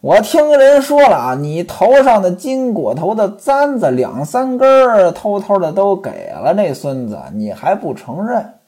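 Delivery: a husband cursing his wife; cursing accusation. Acted. Ximen Qing curses Pan Jinlian with a stern scolding. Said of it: "西门庆就骂了".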